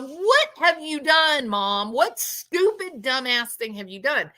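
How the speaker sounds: imagined appalled scolding; exasperated son. Retold or imitated. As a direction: stretch it out in exasperation. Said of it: "you can almost hear him going".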